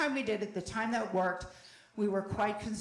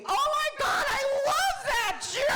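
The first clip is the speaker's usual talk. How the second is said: fake gushing enthusiasm; 4 semitones higher than usual. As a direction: gush like a thrilled fan who secretly scorns him. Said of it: "I will be".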